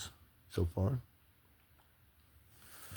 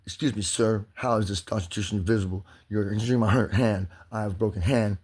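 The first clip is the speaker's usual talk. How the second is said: mock calm formality. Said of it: "You're steadily trying to keep your calm, use proper vernacular".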